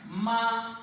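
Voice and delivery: "maman" with "ma" held, then "man" apart; one voice burst per syllable. Shown as a demonstration. Teacher demonstrating the voice bursts, "maman" syllable by syllable. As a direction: split "maman" into two drawn-out syllables. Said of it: "coup de voix".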